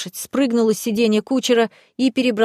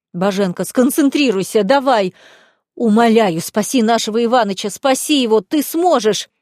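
loud desperate yell; отчаянный крик на весь лес; 4 dB louder than usual. Acted. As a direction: roar it across the forest. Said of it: "Я уже даже не кричала, а орала на весь лес".

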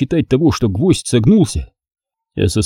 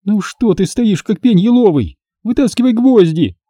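higher, exasperated begging; pleading impatiently; 10 semitones higher than usual. Acted. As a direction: urge him on in pain. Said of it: "взмолилась Алёна".

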